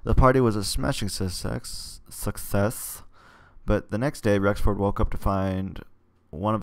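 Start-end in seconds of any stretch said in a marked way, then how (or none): 2.1-3.0 whispered echo. Real, not acted. Reader echoing "success" to themself, whispered. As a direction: whisper "success" back to yourself.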